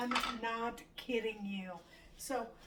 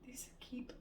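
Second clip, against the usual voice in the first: whisper; 4 semitones higher, 9 dB quieter than usual. Real, not acted. Whispered frustration.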